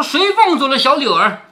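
put-on loud drunken shout across the gate; drunken yelling. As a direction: bellow it like a drunk bully. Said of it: "在那里乱嚷乱叫". (醉汉大声嚷叫)

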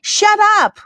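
high-pitched, fed-up cry; exasperated outburst. A narrator's reading. Daughter silencing her quarrelling parents, exasperated outburst. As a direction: cut them off at the end of your patience. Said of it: "终于忍无可忍".

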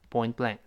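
"Point blank" with the second word stressed. Shown as a demonstration. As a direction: let the weight fall on "blank". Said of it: "重音在后面".

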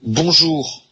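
slow, careful model of the word. Shown as a demonstration. Teacher presenting the greeting word slowly. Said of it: "Donc, bonjour".

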